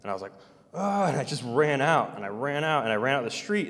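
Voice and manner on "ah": retold yell. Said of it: "'cause I was yelling".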